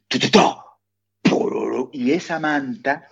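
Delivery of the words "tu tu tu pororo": golpes de guitarra hechos con la boca; imitación del riff. Retold or imitated. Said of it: "es como algo que se está rompiendo". (imitar guitarra con la boca)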